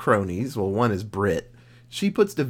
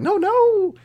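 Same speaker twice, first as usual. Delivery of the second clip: distressed no; 5 dB louder than usual. Retold or imitated. Faye sees her photos everywhere.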